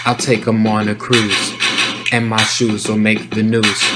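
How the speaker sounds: same rhyme with loose, pausing rhythm; playing with timing. Shown as a demonstration. Teacher showing a timing fix, rap with looser rhythm. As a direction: stretch and pause between lines. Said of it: "you can play with timing a little bit".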